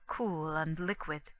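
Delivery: usual speaking voice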